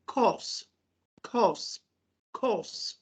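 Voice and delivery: 'course' with the r silent, kaws; British course. Shown as a demonstration. Teacher shows British 'course' from the dictionary, r dropped. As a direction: drop the r in 'course', British style. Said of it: "you can pronounce it like".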